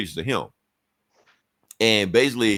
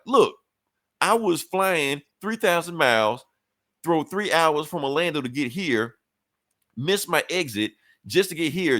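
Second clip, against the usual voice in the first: fed-up grandson venting, half-acted; mock angry rant; 5 semitones higher than usual. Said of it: "Charles wanted to cuss her ass out".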